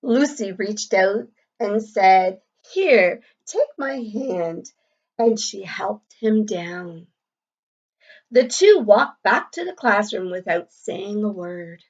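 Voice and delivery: clear, lively storybook reading to a class; reading to children. A narrator's reading. Teacher reading a picture book to the class, lively and clear. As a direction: read the story aloud to young pupils.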